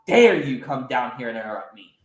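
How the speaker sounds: furious at being interrupted; indignant outrage. Acted. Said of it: "Del Rey looks disgusted at Shirai".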